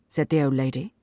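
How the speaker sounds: ordinary delivery, nothing marked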